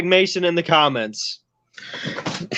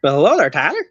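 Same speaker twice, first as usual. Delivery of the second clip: heavy Southern accent; much faster than usual. Shown as a demonstration. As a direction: lay on a thick Southern accent. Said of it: "how I usually did it".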